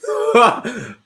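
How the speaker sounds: high burst of laughter; real high laugh; sudden laugh. Real, not acted. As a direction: laugh out at the comment. Reacting to a funny comment.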